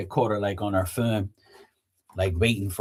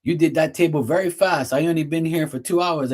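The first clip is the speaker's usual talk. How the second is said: higher, amazed tone; impressed worker imitation; 5 semitones higher than usual. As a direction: sound amazed like the polite worker. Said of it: "He goes".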